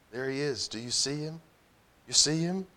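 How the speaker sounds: soft, rising with wonder; awed whisper. A narrator's reading. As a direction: point him out in hushed awe. Awed pointing out a vision.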